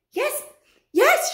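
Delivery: high, loud insistent cry; witch shouting. Acted. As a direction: insist shrilly. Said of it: "shouted the first witch".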